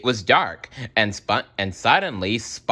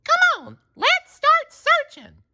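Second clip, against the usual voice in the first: Sandy rallying; 4 dB louder than usual. A narrator's reading. Sandy rallies.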